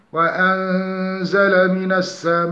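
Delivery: slow melodic tajweed chant; Quranic recitation. Shown as a demonstration. Tajweed teacher reciting an example verse slowly.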